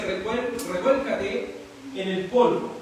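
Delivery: lectura lenta y marcada. Shown as a demonstration. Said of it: "Entonces le dice".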